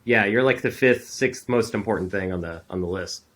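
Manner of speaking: dismissive. Retold or imitated. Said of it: "people are like".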